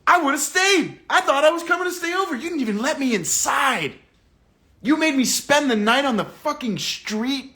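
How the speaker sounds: voicing the girl. Voicing the girl's complaint.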